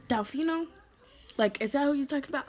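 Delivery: rushed, startled double-check; surprised question. Retold or imitated.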